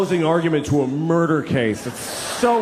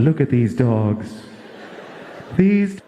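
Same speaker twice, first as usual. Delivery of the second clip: charity ad voice; slower than usual. Retold or imitated. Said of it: "And the voice comes on".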